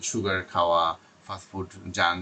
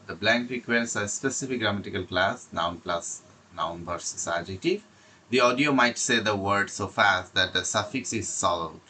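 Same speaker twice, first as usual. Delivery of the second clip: slow, deliberate English reading; slow reading aloud; much slower than usual. Shown as a demonstration. Teacher reading notes slowly to IELTS students, slow reading.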